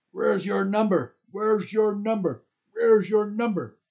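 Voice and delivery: loud, high, drawn-out angry demand; aggressive shout. A narrator's reading. Angry guard shouting into a tent at night, aggressive shout. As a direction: shout it hard, stretching the words. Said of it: "he hears a loud shout".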